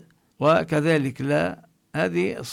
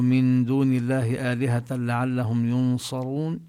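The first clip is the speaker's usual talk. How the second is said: Quranic recitation; 2 semitones lower than usual. Shown as a demonstration. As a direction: chant the verse with tajweed. Recites verses continuing Yasin.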